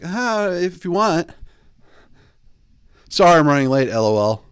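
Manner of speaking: a hint of a nervous texter reading aloud; mock needy texter. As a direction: read it like an anxious texter. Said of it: "Don't do that if you're a man".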